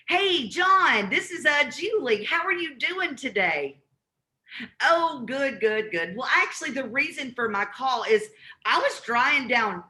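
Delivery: upbeat friendly cold call opener; cold caller voice. Shown as a demonstration. Cold caller greeting a property owner, upbeat friendly. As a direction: greet him brightly like a caller who knows him. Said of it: "Here's how the call's gonna go".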